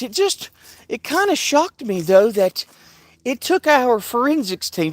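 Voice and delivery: lightly mocking imitation of the reporter. Imitating her interview answer.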